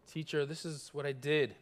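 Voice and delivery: put-on soft, understated timid child; a hint of a shy little child; child showing teacher a ruined page, softly timid; mildly timid. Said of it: "in a very, very timid way".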